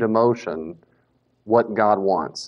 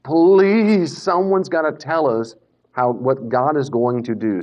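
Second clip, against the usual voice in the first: pleading; 2 semitones higher, slower than usual. Acted. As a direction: beg someone for an answer. John weeping, voiced pleading.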